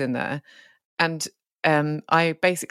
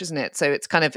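ordinary talk, nothing marked

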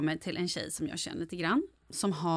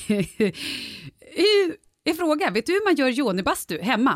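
high, slow-starting imitation of herself asking; put-on own voice; 5 semitones higher, 3 dB louder, slower than usual. Podcaster re-enacting her question to an expert, high put-on voice. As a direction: ask in an exaggeratedly high voice. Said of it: "säger jag med min röst då".

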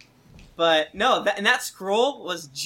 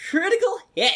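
mock triumphant shout; 12 semitones higher, faster than usual. Host reading a listener's game review, mock triumphant. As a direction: call it out much higher, hamming it up. Reads a review quote exclamation.

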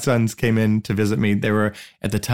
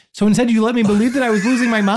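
high, louder, laughing incredulous; high laughing indignation at parents; laughing disbelief; 10 semitones higher, 4 dB louder than usual. Retold or imitated. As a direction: laugh out the outrage. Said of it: "I was like".

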